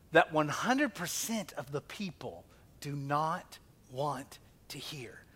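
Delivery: hushed, unvoiced delivery; whisper. Real, not acted. Preacher to congregation, whispering the hard truth. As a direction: let it fall to a breathy whisper.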